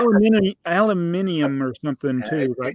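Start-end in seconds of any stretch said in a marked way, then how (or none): 0.0-1.6 "aluminium" said al-yoo-MIN-ee-um; imitating the overseas way of saying "aluminium"; British-style aluminium. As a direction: say "aluminium" with the extra i before the final um. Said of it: "they say aluminium".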